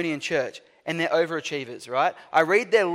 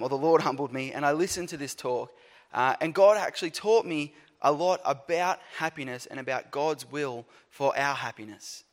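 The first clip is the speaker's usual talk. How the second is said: ordinary talk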